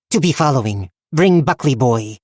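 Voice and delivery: terse odd goblin grammar. Acted. Goblin speaks broken English.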